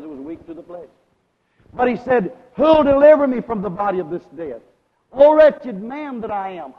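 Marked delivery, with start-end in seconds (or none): 2.6-6.7 preaching. Real, not acted. Preacher voicing Paul's plea for deliverance, forceful preaching.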